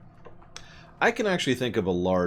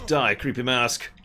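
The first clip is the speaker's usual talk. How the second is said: battle cry; 5 semitones higher, 5 dB louder than usual. Acted. Attacking enemy in game.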